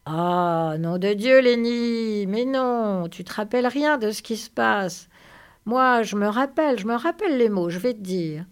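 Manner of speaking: loud, exasperated outburst; acted exasperation. George loses patience with forgetful Lénie, exasperated. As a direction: exclaim it loudly, then explain.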